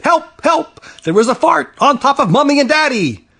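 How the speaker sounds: high, urgent cry for help; fast, frantic child on the phone; panicked plea. A narrator's reading. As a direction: call out in mock panic.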